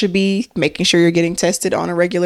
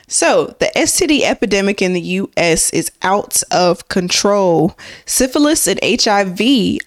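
newscaster voice. Shown as a demonstration. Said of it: "I'm trying to do my newscaster voice".

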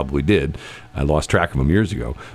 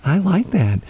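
high, sing-song mock of a delighted co-host; mocking Shelley; 13 semitones higher than usual. Host mocking his co-host's eager reaction, high squeaky voice. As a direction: squeal it like an over-eager fake fan. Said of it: "she's going".

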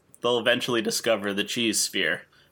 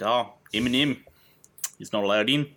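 put-on New Zealand accent. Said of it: "did a New Zealand accent".

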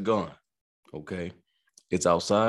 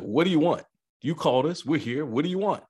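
exasperated yell; 7 semitones higher than usual. Retold or imitated. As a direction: bark it at her like a fed-up cop. Cop yelling at drunk woman.

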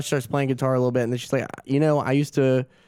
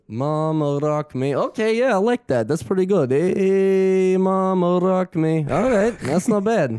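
higher-pitched mock British-Russian accent, half singing; playful, hammed-up British-Russian impression, drawn-out lyrics; 7 semitones higher, 3 dB louder, slower than usual. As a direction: imitate a British-Russian guy trying out an American song. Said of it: "sounds a little crazy in that accent".

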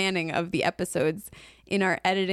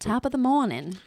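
mock British accent; 5 semitones higher than usual. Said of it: "Is that British?".

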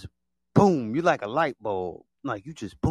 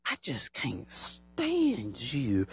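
mock hater voice; 6 dB quieter, much slower than usual. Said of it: "they just like".

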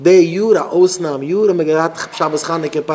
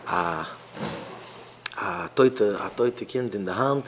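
weeping mother; 7 semitones lower, 9 dB quieter, much slower than usual. Retold or imitated. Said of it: "und, äh, sie weint".

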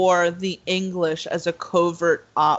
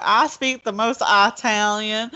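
bad Italian boast; 3 semitones higher than usual. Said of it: "it was so hilarious 'cause he was like".

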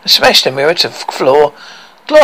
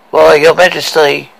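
spooky mirror voice; 6 dB louder than usual. Acted. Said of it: "ghostly face and a spooky voice".

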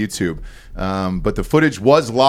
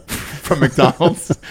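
drawn out through laughter; laughing; 4 semitones higher, much slower than usual. Real, not acted. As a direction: laugh out the words. Laughing while describing Jesus.

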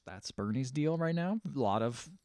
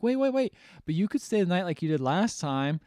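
higher-pitched, acted-out plea; retold pleading; 5 semitones higher than usual. Woman begging a departing man to stay, retold pleading. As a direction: urgently stop them leaving, lightly acted.

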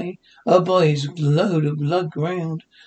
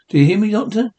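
loud raised call; shouting; 4 semitones higher, 5 dB louder, faster than usual. Acted. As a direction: shout so the doctor hears. Shouting at deaf doctor.

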